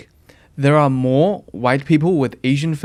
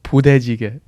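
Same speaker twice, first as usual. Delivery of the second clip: Korean accent. Shown as a demonstration. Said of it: "try your best to say it in a Korean accent".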